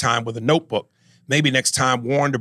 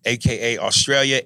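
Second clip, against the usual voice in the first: put-on African accent. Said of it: "please don't do the African accent".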